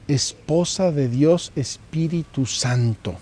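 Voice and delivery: slow, reverent prayer; quoting a cherished prayer, unhurried and devout; prayer recitation. Acted. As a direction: recite each title of the prayer slowly and devoutly. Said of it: "dice una oración".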